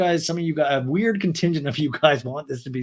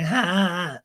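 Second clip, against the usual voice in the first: higher, spoken-out fake laugh; mock evil laugh; 4 semitones higher, slower than usual. Recapper imitating Raquel's laugh and smirk, mock evil. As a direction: imitate a wicked little cackle. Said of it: "which is really evil".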